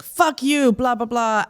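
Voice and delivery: hammed-up hostile jab; angry cursing, retold. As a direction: imitate an angry man cursing at someone. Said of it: "he's getting really angry and violent".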